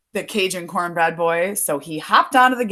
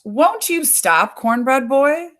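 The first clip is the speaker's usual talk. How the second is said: coaxing raccoon; 7 semitones higher than usual. A narrator's reading. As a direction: coax sweetly in a higher pitch. Hungry raccoon coaxing in a story.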